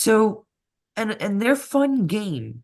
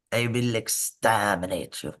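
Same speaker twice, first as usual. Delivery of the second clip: Dalek voice; 9 semitones lower, 5 dB quieter than usual. Retold or imitated. Host mocks the robot project as a Dalek, lightly voiced. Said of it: "It's Daleks".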